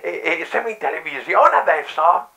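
high old lady voice with bad dentures; old lady caller.

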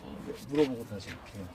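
slurring like a tipsy customer; pretend drunk. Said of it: "술 취한 척하고".

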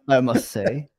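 slow, mock English accent. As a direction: draw it out in a bad English accent. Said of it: "I apologize for doing bad".

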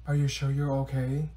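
ordinary talk, nothing marked

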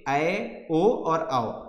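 each vowel ऐ, ओ, औ drawn out very slowly and distinctly; vowels spelled out. Shown as a demonstration. Teacher to class, saying ऐ, ओ, औ very slowly. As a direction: stretch out ऐ, ओ and औ one by one so students hear each. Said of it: "यहाँ पे मिल रहा होगा आपको ए".

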